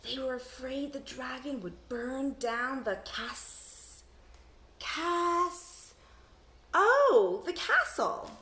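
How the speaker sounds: slow, stalled read, stuck on "cas-"; a kid sounding out "castle"; sounding out a word. Shown as a demonstration. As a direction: stumble on "cas-, cas-" then land on "castle". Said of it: "try sounding them out".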